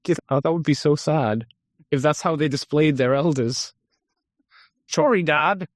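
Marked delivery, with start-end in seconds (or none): 4.9-5.7 mock apology. Voicing creature displaying its dead father.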